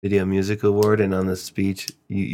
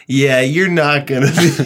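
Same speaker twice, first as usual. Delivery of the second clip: louder, higher imitated dismissal; blunt put-down; 5 semitones higher, 6 dB louder than usual. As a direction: act out bluntly crushing a kid's dream. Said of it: "as blunt as you could say".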